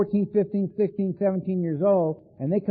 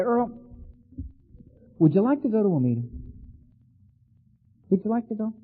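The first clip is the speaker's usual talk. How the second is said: mock gentle invitation; faster than usual. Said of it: "if my sponsor had called me and said".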